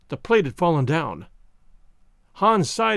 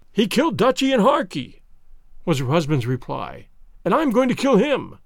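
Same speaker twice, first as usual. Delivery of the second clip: grim anger. Acted. Husband set on revenge.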